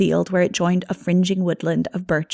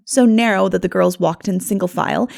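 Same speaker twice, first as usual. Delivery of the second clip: ordinary delivery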